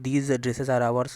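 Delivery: very slow, each word spaced out; slow dictation. Shown as a demonstration. Teacher reading an example sentence to students, very slow. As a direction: read the example word by word for the class. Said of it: "second example".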